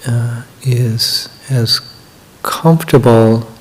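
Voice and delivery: unhurried guidance with long pauses between phrases; measured meditation-leader delivery, words drawn out toward the end; guided meditation. Acted. Begins leading the guided meditation.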